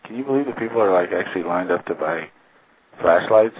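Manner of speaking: imitating her sarcastic disbelief. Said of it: "being sarcastic".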